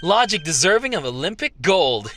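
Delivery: lightly voiced smug flatterer; a hint of a cocky admirer; mild put-on voice; Oikawa voice. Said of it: "this is my Oikawa voice".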